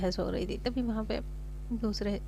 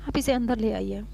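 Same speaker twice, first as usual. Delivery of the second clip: exasperated. Acted. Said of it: "mechanic भी परेशान हो जाता है".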